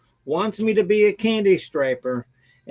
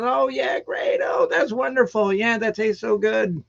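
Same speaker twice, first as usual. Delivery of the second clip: imitated guests' praise; 4 semitones higher than usual. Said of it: "And I says".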